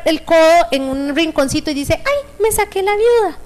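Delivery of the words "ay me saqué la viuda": light pain cry. Shown as a demonstration. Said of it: "a veces es la entonación".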